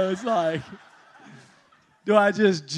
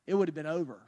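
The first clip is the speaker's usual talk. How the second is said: "it would have been over" dropped low and soft, "would" only lightly stressed; quiet low echo; 3 semitones lower, 7 dB quieter, much faster than usual. Real, not acted. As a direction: let it sink, low and soft. Emphatic first take, quiet repeat.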